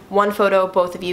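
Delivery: understated, matter-of-fact imitation; deadpan. Comedian answers two fans asking for a photo, deadpan. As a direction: imitate a straight-faced, to-the-point reply. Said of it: "with a straight face".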